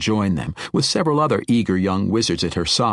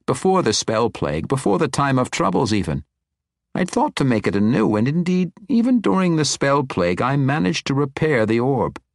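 put-on higher-pitched, rambling old wizard; animated old wizard; 5 semitones higher than usual. Old wizard explains the ancient orb to the woman, animated. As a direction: explain it eagerly with lifted pitch.

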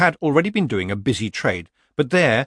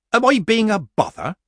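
high, anxious-to-please question; meek old witch; 12 semitones higher, 6 dB louder than usual. A narrator's reading. Granny answering a request to leave, meek. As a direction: ask it innocently, pitched well up.

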